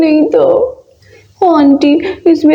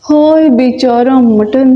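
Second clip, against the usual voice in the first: low slow sigh over the mutton; mock mourning; 4 semitones lower, slower than usual.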